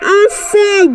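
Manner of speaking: very slow, stretched-out 'die'; long drawn-out threat. Pretend. Player repeats the threat to the wolf, drawn-out mock cry.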